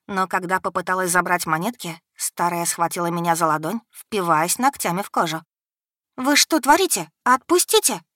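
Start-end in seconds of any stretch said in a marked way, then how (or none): 6.2-8.0 high, loud alarmed cry; exclaiming. A narrator's reading. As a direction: yank free and cry out. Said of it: "воскликнула".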